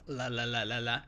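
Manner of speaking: la with tongue tip at the teeth; Thai L sound. Shown as a demonstration. Teaching the tongue spot for Thai L. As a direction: repeat la, la, la lightly. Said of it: "tongue at the back tip of the teeth".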